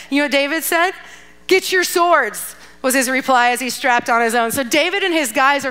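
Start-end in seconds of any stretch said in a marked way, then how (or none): 1.5-2.5 slow, higher-pitched battle order; acted command. David telling his men to arm, acted command. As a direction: give a drawn-out, mock-heroic order.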